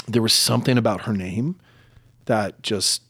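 real emotion, held back while talking; halting, choked up a little as you apologise; getting emotional. Real, not acted. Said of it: "I'm getting emotional on this show".

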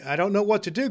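high-pitched excited outburst; overwhelmed cry. Acted. Scrooge making a loon of himself, crying out. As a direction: exclaim it, giddily overwhelmed. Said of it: "cried Scrooge, laughing and crying in the same breath".

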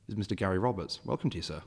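ordinary talk

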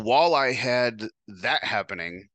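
ordinary delivery

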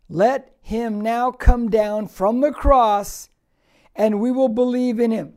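slow, loud, jeering challenge; mocking taunt. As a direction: dare him to come down, sneering. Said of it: "Watch what they say".

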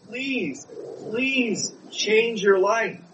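pleading, high and slow; a pleading preacher's demo of begging. Shown as a demonstration. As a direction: beg them tearfully, drawn out. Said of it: "Begging them is like getting down on your knees".

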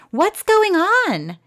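high, loud, drawn-out demand; alarmed. A narrator's reading. Mother rushes into the hallway at barking, alarmed. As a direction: burst in demanding an explanation.

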